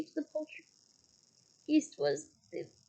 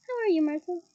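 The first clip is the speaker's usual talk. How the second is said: falsely bright; 5 dB louder than usual. Acted. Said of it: "in a falsely bright voice".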